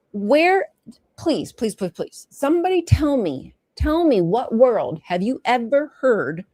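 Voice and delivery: high pleading outburst, demanding an answer; exasperated plea. Real, not acted. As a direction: beg the class to name one example. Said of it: "rhetorical plea to audience".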